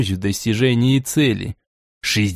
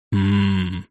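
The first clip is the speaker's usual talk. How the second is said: low thoughtful hum; 5 semitones lower than usual. Acted. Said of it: "хмыкнул Борей".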